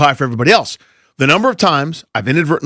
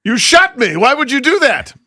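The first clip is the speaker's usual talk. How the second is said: high, wounded movie-character impression; comically aggrieved cry of a shot man; Mustafa; 10 semitones higher, slower than usual. Co-host playing shot henchman from Austin Powers, high aggrieved impression. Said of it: "Mustafa, Will Ferrell's character".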